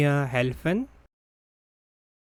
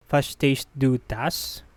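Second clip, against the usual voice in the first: careful teaching pace, rising at the end. Shown as a demonstration. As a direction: ask it word by word. Teacher repeats slowly for learners.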